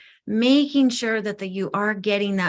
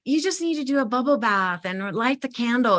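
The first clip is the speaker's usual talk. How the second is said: light mock LA accent, a bit higher; 4 semitones higher than usual. People advising a bubble bath, mildly mocked LA accent. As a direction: imitate well-meaning advice in a higher LA accent. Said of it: "L A, you know, accent".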